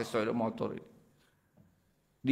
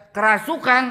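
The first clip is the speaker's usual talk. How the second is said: "Kerasukan?" repeated high and loud as a doubting question; a nurse who won't believe it, echoing loudly; incredulous echo; 9 semitones higher, 7 dB louder than usual. Retold or imitated. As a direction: echo the word back in disbelief. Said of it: "suster nggak percaya".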